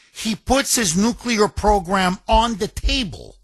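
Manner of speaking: ordinary talk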